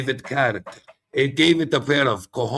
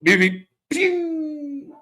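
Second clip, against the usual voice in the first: roadrunner beep; 12 semitones higher, much slower than usual. Retold or imitated. Cartoon roadrunner call, Coyote named.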